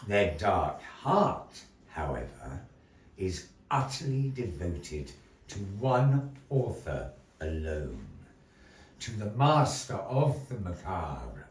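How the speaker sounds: theatrical storyteller narration with long pauses; measured, dramatic tale-telling; story narration. A narrator's reading. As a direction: spin the tale for the audience.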